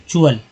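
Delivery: चुअल with TU as "choo"; pronunciation demo. Shown as a demonstration. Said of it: "च उच्चारण करते हैं". (चुअल, च की ध्वनि से)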